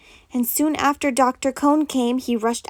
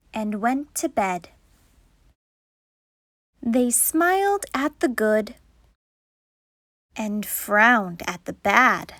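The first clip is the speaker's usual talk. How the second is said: put-on story reading for kids. Teacher reading Madeline to the class. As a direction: read it like bedtime verse to children. Reads the picture book aloud.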